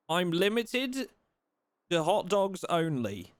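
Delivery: slow, high, loud indignation; indignant rant. Real, not acted. Streamer complaining to chat about game rules, slow outraged. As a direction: drag it out in disbelief.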